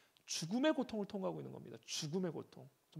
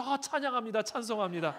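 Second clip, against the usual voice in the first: laughing, high, loud hallelujah; the same sufferer suddenly praising; joyful praise; 7 semitones higher, 16 dB louder than usual. Retold or imitated.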